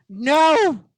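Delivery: high, loud cry of protest; Kimberly. Acted. Teammate sees the sword about to swing, screamed protest. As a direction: scream it out to stop the blow. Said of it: "And Kimberly goes".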